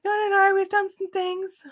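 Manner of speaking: imitating the support agent's nervous insistence; mock defensive agent. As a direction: play the agent protesting too much. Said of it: "They're like".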